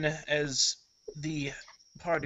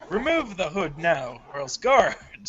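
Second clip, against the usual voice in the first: stern threat; 3 semitones higher, 6 dB louder than usual. Acted. Wealthy man threatens hooded stranger.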